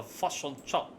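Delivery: mock Kiwi vowels, "fish and chips" as "fuss on chop"; exaggerated Kiwi pronunciation; New Zealand accent. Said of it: "New Zealanders, I speak with a fuss on chop".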